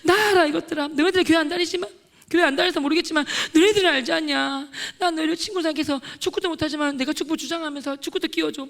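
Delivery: acted wailing reproach, pitched high; tearful protest. Student held back by friends, acted tearful protest. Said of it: "막 엉엉 울면서".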